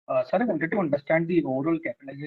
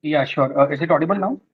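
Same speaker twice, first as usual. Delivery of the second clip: louder, checking they can be heard; speaking up; 5 dB louder than usual. Real, not acted. Analyst asked to speak louder on a call, speaking up. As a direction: raise your voice for a bad line. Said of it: "speak little slowly and loudly".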